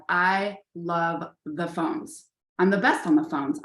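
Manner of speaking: slow, deliberate self-pep talk into the mirror; drawn-out, convincing yourself "I love the phones"; mirror affirmation. Retold or imitated. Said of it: "I'd be in front of the mirror saying".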